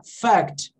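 "fact" said slowly with the c sounded before the t; slow, C pronounced. Shown as a demonstration. Teacher showing the C can be heard, slow careful demo. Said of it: "Se eu falar devagar".

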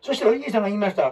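rushed, fast flat read; mock stiff reading. Shown as a demonstration. Teacher showing the wrong, stiff way to narrate. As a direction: rush through it like a robot. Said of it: "違うやん".

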